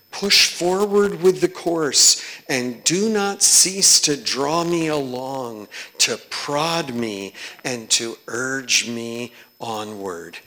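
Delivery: fervent devout reading; reading aria text. Acted. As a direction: urge it forward like a prayer. Reads aria text aloud.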